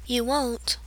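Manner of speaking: very soft, plain firm repeat; solemn girl ordering a wolf, very softly; simply. A narrator's reading. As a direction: tell the wolf quietly. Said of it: "she repeats simply".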